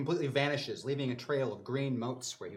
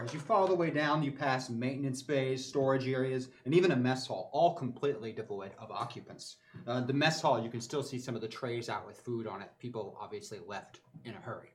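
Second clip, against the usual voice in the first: game master narration. A narrator's reading. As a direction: narrate it like a sci-fi action scene. GM scene narration.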